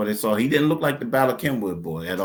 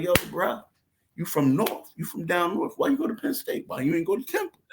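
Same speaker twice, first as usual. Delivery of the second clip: higher taunting, climbing to a squeak; mocking taunt; 6 semitones higher than usual. Taunting the boyfriend about Penn State, higher mocking. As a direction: needle him, voice rising.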